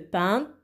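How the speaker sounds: "Peintre" as peint, long gap, re; split into syllables. Shown as a demonstration. Teacher shows two syllables, "Peintre" broken in two. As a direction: break "Peintre" in two far-apart beats. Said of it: "il y en a deux".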